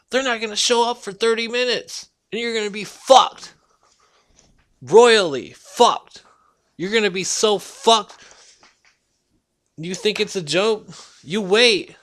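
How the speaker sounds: worked-up yelling at the listener; rising angry rant. Real, not acted. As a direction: build the rant to a shout. Ranting about police not coming.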